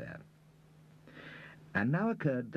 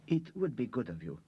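murmured; 6 semitones higher than usual. A narrator's reading. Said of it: "murmured the lady".

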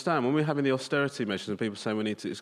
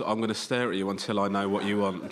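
Derren Brown stare; 7 semitones lower than usual. Retold or imitated. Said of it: "this Derren Brown thing".

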